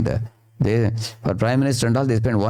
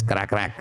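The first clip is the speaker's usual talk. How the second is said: crow caw imitation; 6 dB quieter than usual. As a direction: imitate a crow's rough call. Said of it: "I make a sound like this".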